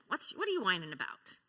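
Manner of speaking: irritated scolding question; an annoyed parent scolding a whiny child. Retold or imitated. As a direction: snap at the whining kid. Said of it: "We could be saying that".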